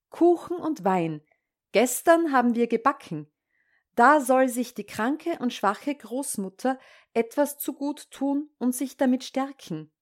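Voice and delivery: lightly voiced storybook child; lightly voiced Red Riding Hood. Red Riding Hood answers the wolf.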